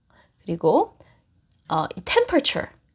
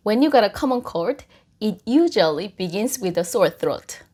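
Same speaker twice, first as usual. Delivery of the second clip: very slow, clear English model sentence; slow teaching read; 2 semitones lower, much slower than usual. Shown as a demonstration. Teacher reads English slowly for Korean students. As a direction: spell it out slowly for learners. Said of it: "teacher modelling English slowly".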